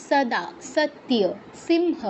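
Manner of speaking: "সদা, সত্য, সিংহ" each beginning with s, not sh; crisp dental s in "সদা, সত্য, সিংহ"; dental sibilant words. Shown as a demonstration. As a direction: say "সদা, সত্য, সিংহ" slowly as sada, satya, simha. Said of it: "এরকম".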